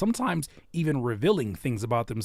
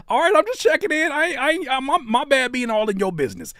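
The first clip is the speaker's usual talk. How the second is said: laughing apology; 12 semitones higher, 5 dB louder than usual. Real, not acted. Laughing apology, high pitched.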